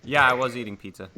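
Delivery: chewing while talking; mouth full. Real, not acted. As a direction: talk around a bite of pizza. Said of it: "Are you eating something?".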